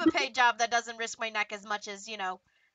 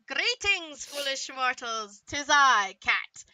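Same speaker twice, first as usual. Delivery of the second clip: dark lord; 4 dB louder, slower than usual. Acted. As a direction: boom it out like an evil overlord. DM restarts the villain greeting.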